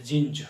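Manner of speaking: जींज with a buzzing z sound at the end; correct pronunciation. Shown as a demonstration. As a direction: end जींज on a clear voiced z. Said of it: "ये जींज कहलाता है".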